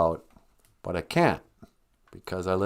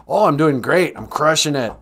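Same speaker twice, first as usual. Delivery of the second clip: mock boastful, a bit louder; lightly hammed-up bragging; 3 semitones higher, 4 dB louder than usual. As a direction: rub it in with a hammed-up brag. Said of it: "it's not good to just go".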